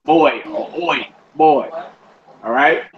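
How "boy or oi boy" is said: put-on "Boy or oi" with a clear oi glide; oi sound demo. Shown as a demonstration. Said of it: "makes an oi sound".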